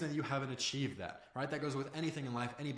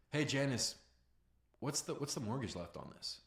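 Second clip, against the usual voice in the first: softer, halting, casual curiosity; curious; 4 dB quieter than usual. Shown as a demonstration. Caller asking Janice about her mortgage, softly curious. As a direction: ease into it gently, as if just wondering. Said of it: "You wanna be curious".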